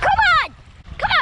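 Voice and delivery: high, loud eager call; excited urging. Real, not acted. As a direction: egg him on loudly. Child urging dad.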